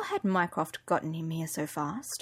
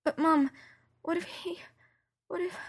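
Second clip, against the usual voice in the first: higher, breaking and fading; tearful; 10 semitones higher, 4 dB quieter than usual. Acted. Daughter afraid Sherlock is dead, tearful and breaking. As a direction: choke up and trail off. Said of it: "I sniffed and wiped at my eyes".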